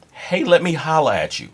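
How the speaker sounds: high-pitched mocking catcall; exaggerated imitation of a street come-on; mocked pickup approach. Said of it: "that's how motherfuckers actually appro".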